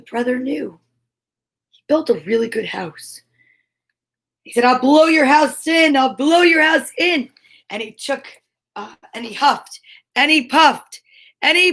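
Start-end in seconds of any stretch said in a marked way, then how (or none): 4.6-6.0 louder menacing wolf; wolf threat. Acted. Wolf threatens brick house. 6.0-7.3 louder menacing wolf; wolf threat. Acted.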